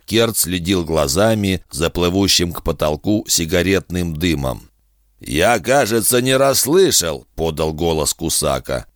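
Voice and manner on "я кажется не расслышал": lightly voiced, higher sly captor; a hint of a smug bargaining villain; sly bounty hunter. Kusaka voiced in narration.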